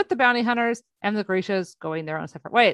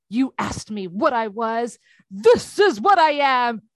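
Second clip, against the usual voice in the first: slow, building to louder; heroic declaration; 4 dB louder, slower than usual. Retold or imitated. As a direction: proclaim it like a hero. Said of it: "She goes all hero".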